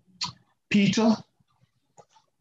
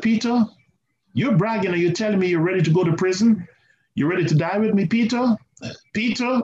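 teasing rebuke; 5 semitones higher than usual. Retold or imitated. Jesus chides boasting Peter.

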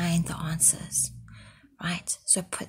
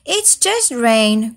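groaning; 2 semitones higher, 3 dB louder than usual. Acted. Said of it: "groaned Horse".

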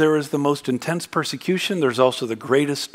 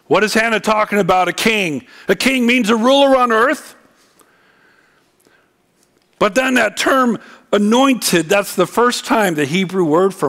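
emphatic preaching; 8 semitones higher, 4 dB louder than usual. Acted. Raised preaching delivery.

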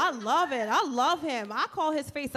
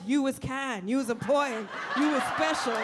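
quoting The Help nanny. Retold or imitated. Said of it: "this ain't the help".

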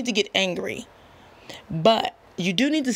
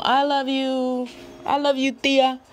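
higher, sweet, loving quote to an aunt; fond "I love you"; 5 semitones higher than usual. Retold or imitated. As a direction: say it fondly to your tia, a bit higher. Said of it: "and we tell 'em".

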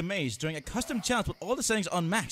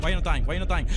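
frustrated demand; 3 semitones lower, 6 dB louder, much faster than usual. Real, not acted. Frustrated at enemy that survives.

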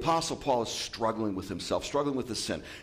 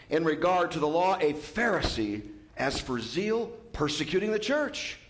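a proud Pharisee listing his credentials, climbing higher and higher; proud boasting, rising higher; 5 semitones higher than usual. Acted. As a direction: brag it, each claim higher. Listing Paul's credentials with pride.

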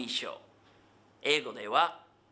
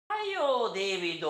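hurrying call; faster than usual. Acted. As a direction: call out to hurry a friend along. 例文で相手を急かして呼ぶ. (急かして呼びかける声)

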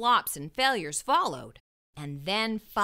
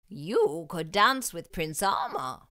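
kindly headmaster; 4 semitones lower, slower than usual. Acted. Headmaster welcoming the students, slow and grand. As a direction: speak like a grand, encouraging headmaster.

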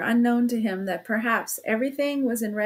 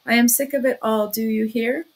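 mild anger; 4 dB louder than usual. Acted. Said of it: "feeling angry at once".

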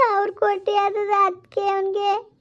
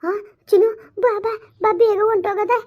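urgent, tearful mother; hurried mother. Acted. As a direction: rush the child out, a touch of crying. Mother hurries daughter away. (ಆತಂಕದ ತಾಯಿ)

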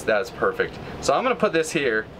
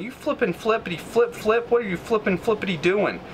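mock cursing; 7 semitones higher than usual. Real, not acted. Cursing at opponent's move.

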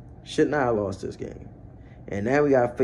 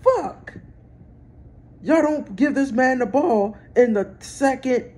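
loud, high-pitched outraged rant; pissed off; 12 semitones higher, 5 dB louder than usual. Real, not acted. Fan raging at the Ravens over who gets the ball, pissed off. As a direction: demand answers in a real angry yell. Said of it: "I'm pissed off".

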